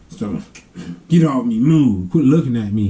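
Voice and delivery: mildly huffy imitation of an irritated kid; mock mad brother. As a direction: grumble people away, lightly acted. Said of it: "when he gets mad, he goes".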